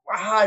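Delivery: loud mock yawn; imitated open-mouthed yawn. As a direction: let out a big pretend yawn. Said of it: "when we yawn, we both like".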